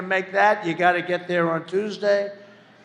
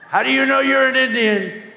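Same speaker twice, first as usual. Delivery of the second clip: high mock question; 7 semitones higher, 4 dB louder than usual. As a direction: voice jumps up for the question. Mock questioner in retold exchange.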